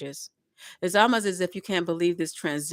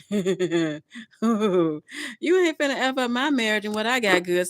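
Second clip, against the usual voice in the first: louder, slow, drawn-out; mock firm warning; 3 dB louder, slower than usual. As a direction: lay down the law, half joking. Acted lover defending marriage.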